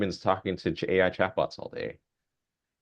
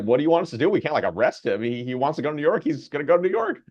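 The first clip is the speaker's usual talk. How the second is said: exasperated police; 6 semitones higher, faster than usual. Retold or imitated. Police shrug off family.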